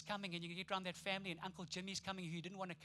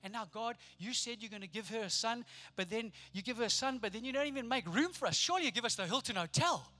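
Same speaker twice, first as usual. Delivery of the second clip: frustrated Joseph; 4 dB louder than usual. Retold or imitated. Joseph complaining to God about the stable, building frustration. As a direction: grumble at God, growing more put out. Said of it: "Do you sense the frustration?".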